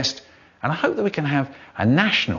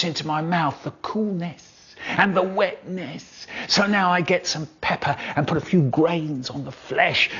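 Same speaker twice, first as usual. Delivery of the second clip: savouring; 3 dB quieter than usual. Acted. Poet relishing the tomato bite by bite, softly. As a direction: linger over the taste.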